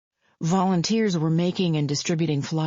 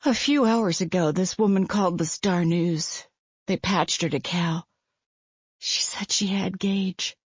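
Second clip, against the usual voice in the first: lightly voiced anxious mother, a touch higher; a worried young mother, holding it together; hint of a frightened mother's voice; distraught mother; 3 semitones higher than usual.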